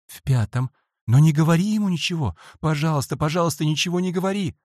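fast, high, loud begging; boy begs his friend to keep silent; panicked pleading. A narrator's reading. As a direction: rush the plea out in fear. Boy begs not to tell.

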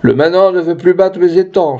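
high-pitched, mild cry of protest; lightly acted indignant exclamation; lord exclaiming. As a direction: complain aloud as a put-out lord. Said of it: "s'écria un seigneur".

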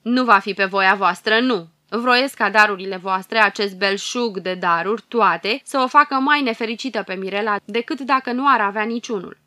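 loud, spiteful witch curse; a wicked witch hurling her doom over the cradle; venomous prophecy. Acted. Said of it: "cu glas veninos profetic".

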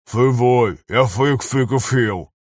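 Фывой said with ф for ж, фык for жив; lisp. Acted. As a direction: lisp through a hurt cheek. Den lisping after blow to face.

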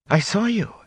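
indignant high protest. Acted. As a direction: insist she saw it. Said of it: "Egwene protested".

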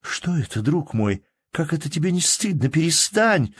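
lightly voiced Nastenka comforting; gentle scolding woman. A narrator's reading. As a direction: coax him to stop crying. Woman comforting weeping man.

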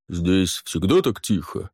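slow, deep booming pirate; deep-voiced Barnish. A narrator's reading. Pirate asking the crew, low bass. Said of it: "пробасил Барниш".

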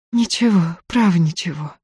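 plain reading voice

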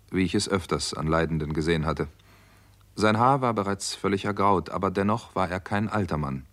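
story narration. A narrator's reading.

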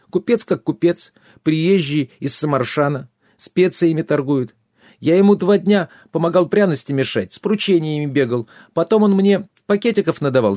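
high, plaintive squire making excuses; whimpering runaway squire. A narrator's reading. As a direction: protest innocence in a high, pleading voice.

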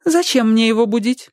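a reluctant wife answering; woman's reply. A narrator's reading. Wife questions the roof man, high reluctant reply. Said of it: "ответила женщина".

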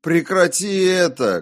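high, loud cries, rising in desperation; shouting. A narrator's reading. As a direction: beg it to stop at full voice. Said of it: "кричал я".

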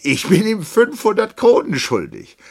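loud, very high confession; agitated outburst. A narrator's reading. Captain reveals his debt, loud and agitated. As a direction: blurt it at high volume.

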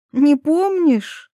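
slow, high, surprised question. A narrator's reading. Ivetta surprised Taras forgot the bat, high and slow. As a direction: Ivetta is taken aback that he forgot. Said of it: "удивилась Иветта".

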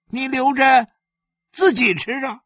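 voiced wife pressing a gift back; coaxing wife. Wife urging him to keep sugar.

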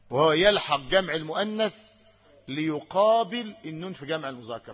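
ordinary talk, nothing marked

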